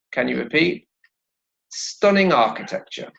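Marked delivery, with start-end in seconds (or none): 1.7-3.1 "Stunning architecture" higher, ng linked into the vowel; "Stunning architecture" joined as one, falling at the end; linked words. Shown as a demonstration. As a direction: glide from "Stunning" straight into "architecture". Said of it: "there is also a liaison".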